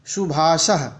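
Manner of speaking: "शुभाशः" said carefully as a model; correct pronunciation. Shown as a demonstration. Teacher showing children the sibilants, careful correct pronunciation. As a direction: model "शुभाशः" with every sound distinct. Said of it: "का शुद्ध उच्चारण करके बच्चों को बताएंगे".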